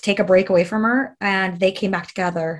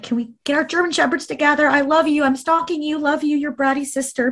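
playful bratty; 6 semitones higher than usual. Retold or imitated. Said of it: "because I'm obnoxious".

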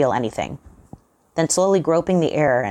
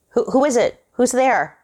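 much higher, louder scared shout; frightened call; 10 semitones higher, 4 dB louder than usual. A narrator's reading. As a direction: call into the dark rafters. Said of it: "he called out".

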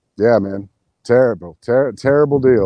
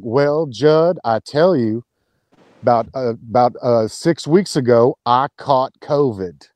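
light imitation of an old Southern lady; a hint of a slow Southern drawl, retelling her words; mild Southern old-lady voice, slowing on the last words; Southern accent; slower than usual. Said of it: "she's real Southern".

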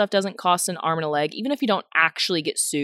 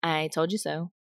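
inner voice; 2 semitones lower, 7 dB quieter than usual. Retold or imitated. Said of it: "in my head, I'm like".

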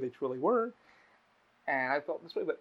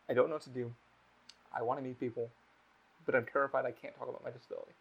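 sad, depressed; 2 semitones lower, 5 dB quieter than usual. Retold or imitated. Host retells a lonely man admitting his fear, sad and subdued. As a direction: quietly imitate someone down on himself. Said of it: "sadly, in his depression state".

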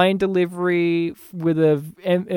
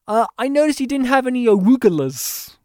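smug Steve Martin; 5 semitones higher than usual. Retold or imitated. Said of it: "Steve Martin's like".

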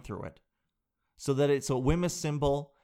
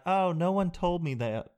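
laughing; 4 semitones higher than usual. Retold or imitated. Woman answering doctor, laughing.

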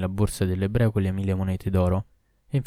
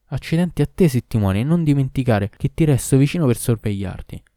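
threatening curse; 4 semitones higher, 5 dB louder than usual. Acted. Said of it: "E aggiunse".

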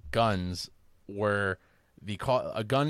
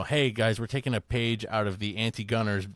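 put-on George Bush accent. Mocking anti-gunners to gun owners, light George Bush accent. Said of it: "I automatically go to that accent".

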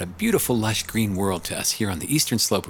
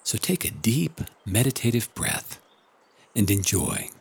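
right in your ear. Acted. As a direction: ease them into calm. Invites listeners to relax.

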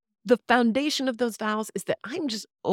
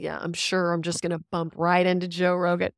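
sarcastic; 3 semitones lower than usual. Retold or imitated. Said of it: "I said that sarcastically".

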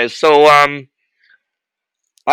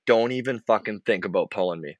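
softer, low warning to the coach; imitating a hushed warning; 4 semitones lower, 9 dB quieter than usual. Goalie hushes a warning to the coach at the bench. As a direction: lean in and warn him quietly. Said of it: "I'm like".

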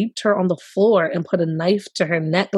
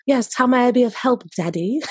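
lightly put-on English accent, slightly higher; 5 semitones higher than usual. Host voicing the texting partner, put-on English accent. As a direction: voice the reply in an amateur English accent. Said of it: "do an English accent".

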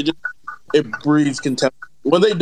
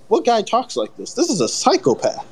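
higher-pitched mock-appalled reaction; appalled disbelief; 5 semitones higher than usual. Reader reacting to a badly written male character, mock appalled. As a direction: act out disbelief at what you are reading.

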